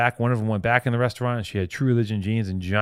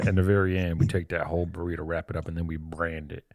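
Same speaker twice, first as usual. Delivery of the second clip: Texas accent; 4 semitones lower than usual. Shown as a demonstration. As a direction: keep up a mock Texas accent. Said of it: "Let me try my Texas accent".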